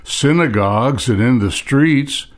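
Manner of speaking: measured reading with pauses between phrases; scripture reading. Acted. Preacher reads Sermon on the Mount to congregation, measured scripture reading. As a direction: read the verses out deliberately, phrase by phrase.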